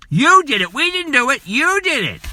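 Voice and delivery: indignant, voice climbing high; angry accusation. Real, not acted. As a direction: jab the blame back at them. Accusing Congress of the killing.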